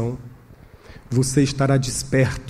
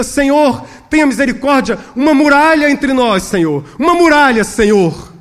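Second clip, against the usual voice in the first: raised, urgent cry to God; intense prayer; 10 semitones higher, 6 dB louder than usual. Acted. Trembling pastor prays as the men approach, intensely. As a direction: plead with mounting intensity, voice pitched high. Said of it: "orava com mais intensidade ainda".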